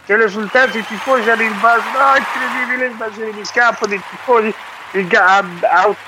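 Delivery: breathless italian goal commentary. Pretend. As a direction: yell it like a TV football commentator. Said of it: "prenda fiato".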